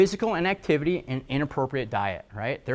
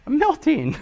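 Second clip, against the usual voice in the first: mock melting cry; 11 semitones higher, 3 dB louder, slower than usual. Mocking agriculture officials.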